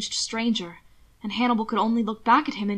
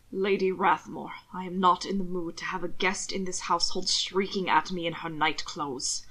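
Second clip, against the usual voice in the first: sharp set-down; 3 semitones lower, 4 dB quieter than usual. Acted. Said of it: "the set-down coming out more sharply".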